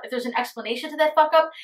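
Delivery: ordinary delivery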